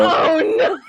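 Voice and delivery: loud, high oh no; real playful groan of defeat; mock dismay cry. Real, not acted. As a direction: wail it in playful despair. NPC is married, dismay.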